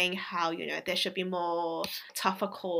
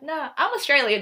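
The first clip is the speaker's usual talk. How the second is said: mock broad Australian accent, a bit louder; 6 semitones higher, 8 dB louder than usual. Answering the nosy plane passenger in a mock Australian accent. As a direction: put on a hammed-up Aussie twang to prove it. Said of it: "Like, trying to sound like that".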